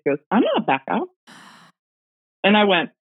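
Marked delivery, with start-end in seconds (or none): 0.3-1.0 lightly imitating a tiny child-like voice, slightly higher; a hint of a small ghostly boy's voice; tiny little voice. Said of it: "now this is a tinier voice".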